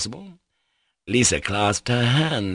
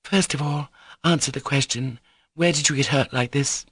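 put-on brisk, raised-pitch girl's demand; eager, bossy questioning; quick questioning; 6 semitones higher than usual. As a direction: insist on an answer promptly. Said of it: "she asked Alyosha quickly".

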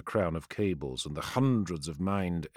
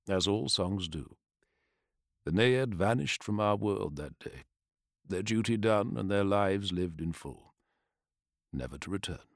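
fireside storytelling. Acted. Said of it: "in his storyteller's voice".

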